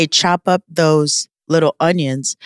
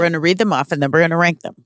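fast mocking echo; much faster than usual. Echoing her sister's plan back quickly. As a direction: rattle it off fast in a mock echo. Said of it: "repeats sister's line".

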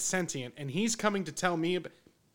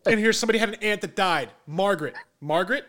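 fast, louder psychic fishing for names; hammy psychic reader; 3 semitones higher, 5 dB louder than usual. Retold or imitated. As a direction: ham up a TV medium guessing names. Acting out a psychic reading.

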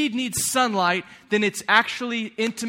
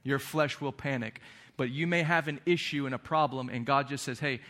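soft devotional voice; 6 semitones lower, 5 dB quieter than usual. Acted.

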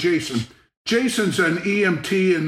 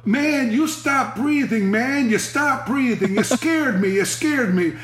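fake fright; 5 semitones higher than usual. Faking fright after shaking him.

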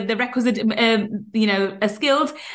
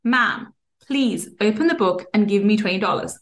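measured, calm request in a slightly lowered voice; calm, retold; 4 semitones lower than usual. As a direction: imitate a man patiently unflinching. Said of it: "with the same calm tone and with the same voice".

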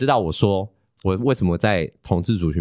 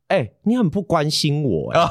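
mock complaining partner; 6 semitones higher than usual. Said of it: "然后他就会骂我".

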